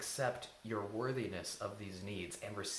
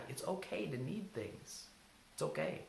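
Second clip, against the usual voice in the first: gentle reassurance; 3 semitones higher, 5 dB quieter than usual. Shown as a demonstration.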